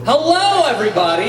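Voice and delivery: reverb on the mic, echoing; cave echo. Real, not acted. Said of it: "Sound like you in a cave".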